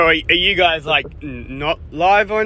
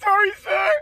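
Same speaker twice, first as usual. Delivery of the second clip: mock meek apology; 13 semitones higher than usual. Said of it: "they're like".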